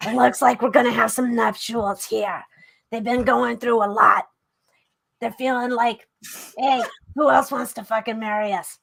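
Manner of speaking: lightly voiced fortune teller; a hint of a mystic psychic; Psychic Joni. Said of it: "I'll do it like Psychic Joni".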